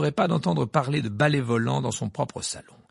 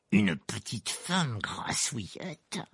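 growled; much slower than usual. A narrator's reading. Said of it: "grogna-t-il enfin".

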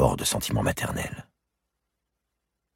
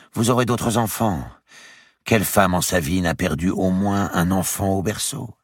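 higher, coaxing noblewoman; higher lady's voice; 7 semitones higher than usual. A narrator's reading. Madame de Bouville reasoning with grieving Marie, higher coaxing voice. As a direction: talk her out of her grief.

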